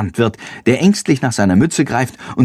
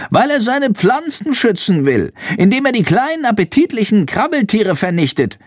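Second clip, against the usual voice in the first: high squeaky bat voice; confiding bat; 11 semitones higher than usual. A narrator's reading. Bat tells Jendrik why the farmer sprays, high voice. Bat explains, narrated as murmuring.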